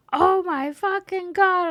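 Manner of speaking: high, slow, drawn-out disbelief; shocked friend. Retold or imitated. Guest voices best friend's stunned text, high drawn-out shock. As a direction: stretch every word in high-pitched shock.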